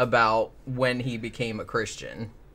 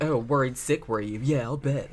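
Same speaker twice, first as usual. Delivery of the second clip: lightly mocking, sarcastic son; douchey. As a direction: throw mom's worry back at her, imitating a jerk. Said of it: "he was the real douchey like that".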